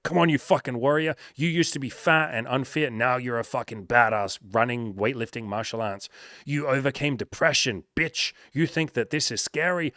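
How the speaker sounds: group cheering a scared friend over the phone; pep talk yell. Retold or imitated. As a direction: fire him up like a coach on the phone. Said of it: "We're like".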